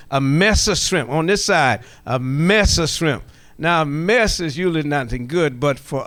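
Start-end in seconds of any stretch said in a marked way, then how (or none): 0.1-1.9 "A mess of shrimp" country-style, "mess" a bit louder; Geechee country "mess of shrimp". Shown as a demonstration. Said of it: "put a little country in it". 2.1-3.2 "A mess of shrimp" slow and drawn out, "mess" leaning; slow country "mess of shrimp". Shown as a demonstration. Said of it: "put a little country in it".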